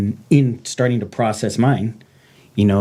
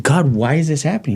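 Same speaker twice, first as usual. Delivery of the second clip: retold indignant plea, pitched up; mad at God; 6 semitones higher than usual. Man questioning God about his suffering, mad. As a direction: demand an answer from God, upset. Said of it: "at first I was mad".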